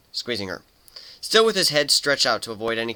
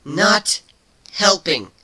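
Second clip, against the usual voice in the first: higher, louder sharp retort; growling; 9 semitones higher, 7 dB louder, much slower than usual. Acted. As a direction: bite the words off. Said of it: "Kuno growled".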